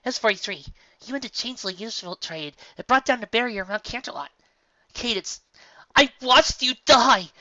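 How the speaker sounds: high, loud accusing outburst. A narrator's reading. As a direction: Twilight hurls accusations at her friends. Twilight accuses friends.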